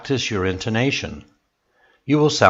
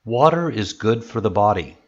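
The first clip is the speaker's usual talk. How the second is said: "body" falls at the end; falling statement. Shown as a demonstration. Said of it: "your voice goes down at the end".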